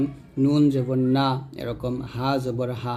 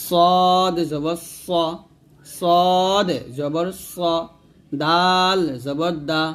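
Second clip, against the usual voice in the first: slow spelling-drill recitation with long-held letter names; read-along drill; much slower than usual. Shown as a demonstration. Teacher leading learners to read along, slow drill recitation. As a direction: draw out each letter name, then land the syllable. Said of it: "এরকম".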